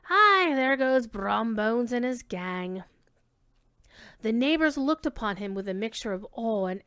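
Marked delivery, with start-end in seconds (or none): 0.0-2.8 jolted awake, calling out; startled old dame. Acted. Old dame woken at midnight, exclaiming in alarm. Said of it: "then exclaim".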